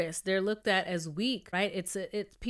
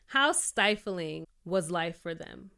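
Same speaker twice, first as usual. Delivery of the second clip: choked up; slower than usual. Real, not acted. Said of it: "I'm about to get emotional".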